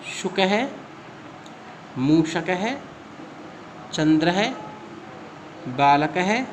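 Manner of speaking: each word read clearly with a pause after it; slow word list read out for students to copy; pronunciation drill. Shown as a demonstration. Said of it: "तो ये हमने उच्चारण किया".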